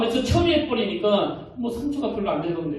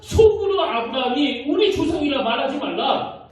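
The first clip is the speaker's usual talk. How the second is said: scripture read as rebuke; 6 semitones higher than usual. Acted. Reads John's rebuke forcefully.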